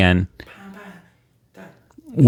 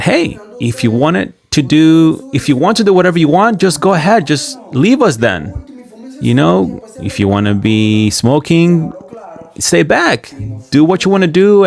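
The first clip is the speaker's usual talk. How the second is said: retold telling off; 6 semitones higher than usual. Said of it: "That's what I told them".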